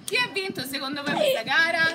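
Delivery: high, loud laughter; laughing. Real, not acted. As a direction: talk through giggles. Laughing after the fight.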